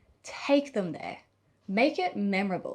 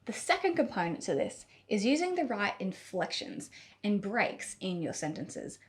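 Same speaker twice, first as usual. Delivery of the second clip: usual speaking voice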